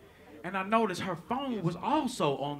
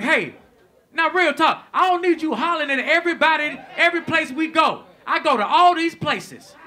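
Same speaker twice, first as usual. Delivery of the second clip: loud, higher-pitched stern telling-off; 6 semitones higher, 7 dB louder than usual. Retold or imitated. Man in the car telling her off, stern. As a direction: put your foot down, raised voice. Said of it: "I got a little stern with her".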